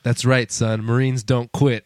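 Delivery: low, slow hero voice for the last words; mock movie-hero gravity, addressed to a kid; stern Marine father. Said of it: "And Aaron Eckhart's like".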